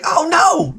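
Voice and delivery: high-pitched mock Black woman's voice; Black woman accent. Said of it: "I lost my black woman accent".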